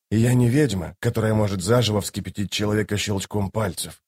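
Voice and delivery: subdued, even list of denials; lightly voiced Toc, resigned. Toc telling his lady what he is not, subdued. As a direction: list them quietly and soberly.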